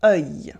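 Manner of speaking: "œil" with a deep rounded vowel gliding into y. Shown as a demonstration. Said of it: "but the vowel is deeper".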